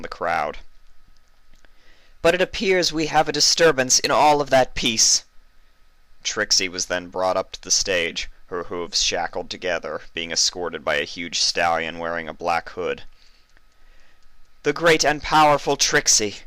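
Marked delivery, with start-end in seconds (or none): 2.2-5.2 high, stately royal proclamation; regal princess address. Acted. Celestia's speech to crowd. 14.6-16.4 high, stately royal proclamation; regal princess address. Acted. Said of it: "Celestia began once again".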